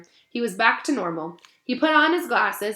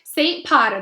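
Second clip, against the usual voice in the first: sneering; 5 semitones higher, 6 dB louder than usual. Acted. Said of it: "said Malfoy slowly".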